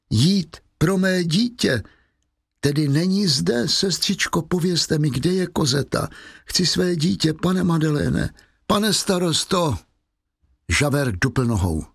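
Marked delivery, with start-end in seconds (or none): 0.1-9.8 desperate plea. Acted. Fantine begging the nun and mayor for her child, desperate.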